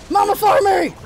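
high, triumphant shouts; battle cry. Pretend. Gamer on a kill streak, battle cry. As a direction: cry it out like a charge.

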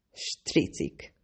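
a hissed, voiceless "Stricik". A narrator's reading. Nancy hisses the insult about traitors. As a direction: spit the word out in a low hiss. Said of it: "sziszegte Nancy".

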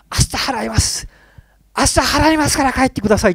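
high, loud pleading ghost voice; ghost begging. Retold or imitated. Ghost on its knees begging the creditor, loud high pleading. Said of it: "って言ってるんですって".

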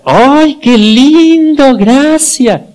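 put-on high, loud, slow gushing praise for a toddler; mother's squeal of delight, drawn out. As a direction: coo at the child like an overjoyed mom. Mother praising her small child.

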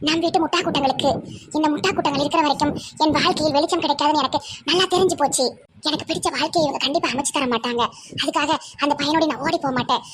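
fast, rushed reading of a bitter farewell letter; brisk mock-indignant letter voice; reading the letter aloud. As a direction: rattle off the runaway's accusations. Reads daughter's angry letter aloud.

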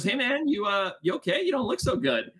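high, tentative, careful questioning; concerned check-in. Retold or imitated. Teammate checking on a hungover friend at breakfast, mildly concerned.

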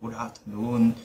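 'good afternoon' with good's d linked into afternoon; linked sounds. Shown as a demonstration. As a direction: softly model 'good afternoon' as one joined word. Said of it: "Đọc như vậy". (đọc nối âm 'good afternoon')

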